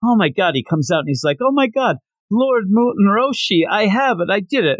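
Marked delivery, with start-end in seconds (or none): 1.4-4.8 high, bursting with fake triumph; excited announcement. Krillin bursting in to his master, excited and high. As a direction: announce it like you just won.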